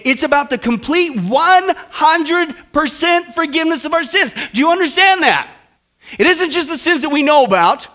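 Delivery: fervent sermon delivery; impassioned preaching. Real, not acted. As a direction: drive the point home to the congregation.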